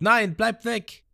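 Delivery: hoher, langsamer Schrei; Abyss schreit. Retold or imitated. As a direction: ein Mädchen schreit verzweifelt, hoch. (Abyss schreit Ruffy an, hoch und gedehnt)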